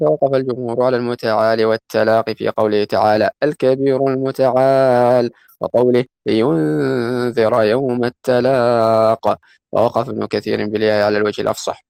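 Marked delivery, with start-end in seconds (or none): 3.4-5.3 Quran recitation. Acted. Quotes Quran verse. 6.3-9.4 Quran recitation. Acted. Quotes Quran verse.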